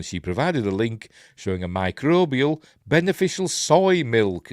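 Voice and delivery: lively, lilting news read; article read aloud. Acted. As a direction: read the story out like a light news item.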